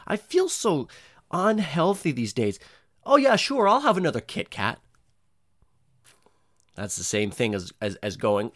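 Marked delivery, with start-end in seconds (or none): 3.0-4.8 high, louder sing-song "sure"; mock carefree snacking; mock self-indulgence. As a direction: ham up giving in to a Kit Kat. Mocking his own sugar habit.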